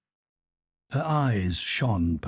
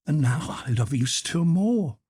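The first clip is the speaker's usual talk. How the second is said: tearful; 9 semitones higher, 4 dB louder than usual. A narrator's reading. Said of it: "with tears in her eyes".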